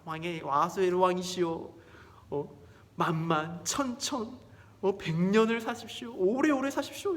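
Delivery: grovel with exaggerated praise; flattering courtier. Haman flatters the king.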